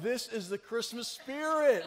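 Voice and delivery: slow, gushing mock of a touched listener; mock sentimental. Pastor mimicking teary listeners, slow mock gush. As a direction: drag it out like a moved listener. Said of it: "You're like".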